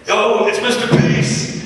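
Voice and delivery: put-on high, breathy kid voice shouting a name; be the starstruck fifth grader spotting him; imitating a thrilled grade schooler; excited kid fan. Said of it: "had said".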